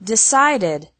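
"decided" in three syllables, de-CIDE-id; "decided" with a clear "did" ending; ED as extra syllable. Shown as a demonstration. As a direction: sound the ED of "decided" as its own syllable. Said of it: "E D only has an extra syllable".

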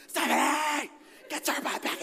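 high, urgent retold holler; acted-out high-pitched yell; alarmed calling out. Calling his wife back from ocean.

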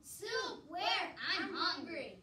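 loud, high eager questions; excited and eager. Acted. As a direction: jump at the thought of food. Dwarves excited by soup.

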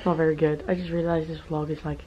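worn-out hoarse voice. Real, not acted. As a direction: speak with a lost voice, hoarse. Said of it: "This is my voice".

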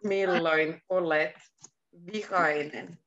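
the question broken up, pause before "vihainen"; slowed-down repeat. Shown as a demonstration. Teacher repeats the question for a learner, slowed down. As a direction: separate "Milloin olet" from "vihainen", carefully.

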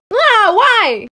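loud, high protesting cry; distressed wail. Acted. Crying classmate called over to fight, distressed wail.

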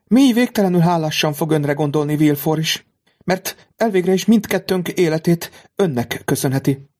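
high, earnest thankful voice; grateful lady. A narrator's reading. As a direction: pour out gratitude. Mother voiced by narrator.

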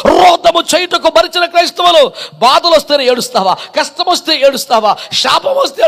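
insistent, chant-like preacher's litany; emphatic sermon delivery, building in force; preached rebuke. Real, not acted. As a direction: hammer out each phrase as a rebuke.

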